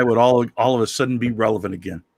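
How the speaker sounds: quick line in wrestler-governor voice; Jesse Ventura. Acted. Joking about a presidential run, wrestler-governor impression. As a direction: stay in the ex-wrestler character. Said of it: "my favorite wrestler that I can do".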